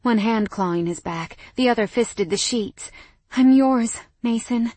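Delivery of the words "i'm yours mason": panting. Acted. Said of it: "I panted".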